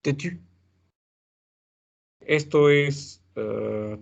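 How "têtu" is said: têtu said slowly with a rounded French u. Shown as a demonstration. Teacher modelling têtu for Spanish speakers, careful French u. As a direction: model the word têtu for students. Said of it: "Es difícil decir têtu".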